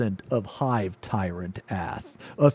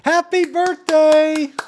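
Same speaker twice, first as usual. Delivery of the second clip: much higher, louder, drawn out; birthday cheer; 6 dB louder, slower than usual. Real, not acted. Cheering happy birthday to the birthday guests.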